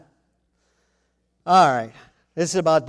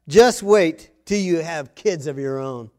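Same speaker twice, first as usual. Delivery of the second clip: dad warning; 6 dB louder, slower than usual. Retold or imitated. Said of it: "to say the darndest things".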